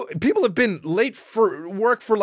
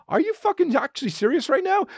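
high-pitched mock outrage; retold indignant disbelief; incredulous; 8 semitones higher than usual. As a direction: challenge them in total disbelief. Retells disbelief at others' praise.

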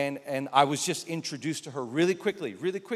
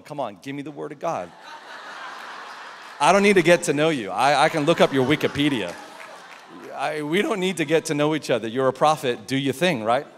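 louder, impatient plea; impatient inner voice; 3 dB louder than usual. Retold or imitated. Pastor voicing his impatient thoughts, louder. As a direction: push her to just prophesy. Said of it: "in my heart, I'm going".

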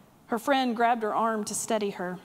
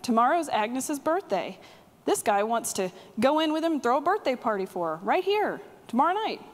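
raised, higher calling voice; shouted call to the back room; 4 semitones higher than usual. Retold or imitated. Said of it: "and he shouted".

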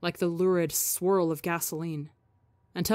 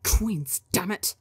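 snarl; slower than usual. Acted.

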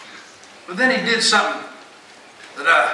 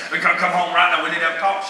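lightly put-on deep voice; a touch of mock authority, kept low; faster than usual. Husband calling his wife home, mildly deep voice. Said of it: "I used my deep voice".

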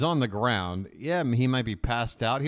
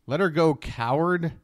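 mocking disbelief. Shown as a demonstration. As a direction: sneer at the weak word. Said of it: "That is the last word you would use".

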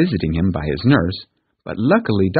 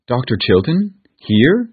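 higher, startled aunt; gasping surprise; 5 semitones higher, 3 dB louder, slower than usual. Acted. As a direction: catch your breath in shock. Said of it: "she gasped".

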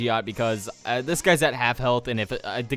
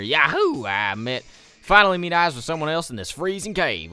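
lightly hammed-up Southern accent; Southern man accent; 3 semitones higher, 3 dB louder than usual. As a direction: read it as an excited Southern man. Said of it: "I gave you a Southern man accent".

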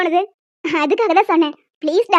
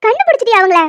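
excited disbelief; 5 dB louder than usual. Acted. Shock at finding parents.

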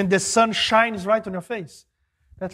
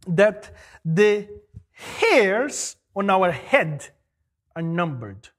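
drawn out very slowly; slow emphasis; much slower than usual. Real, not acted. Preacher stressing a Bible verse, very slow. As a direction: weigh every word.

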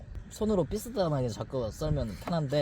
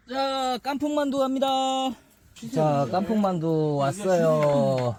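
server call; 5 semitones higher, slower than usual. Acted. Announcing dish like a server.

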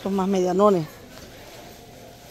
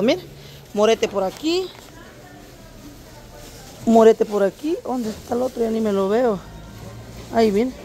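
normal talking voice

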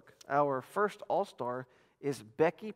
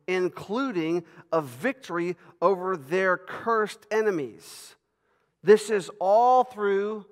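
raised sermon voice, punching key words; emphatic preaching; 4 semitones higher, 7 dB louder than usual. Real, not acted. Preacher points back to promised offspring, emphatic preaching. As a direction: stretch and hammer the key words for the congregation.

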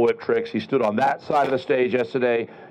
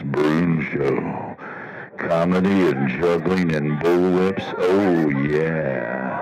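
lower, slow seductive soul-singer croon; 8 semitones lower, much slower than usual. Shown as a demonstration. Performer redoing his show intro as a soul singer, slow and low. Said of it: "like a soul-singer thing".

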